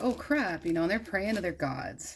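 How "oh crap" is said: high mock panic; panicked sailors. Sailors in the storm, high mock panic. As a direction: yelp it like a scared sailor. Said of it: "So all the sailors are like".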